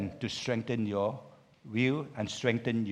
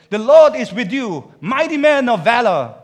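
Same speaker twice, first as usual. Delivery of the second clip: loud, high proclamation; a mighty voice calling out; booming angel greeting; 8 semitones higher, 13 dB louder than usual. Acted. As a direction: announce it like a herald from heaven.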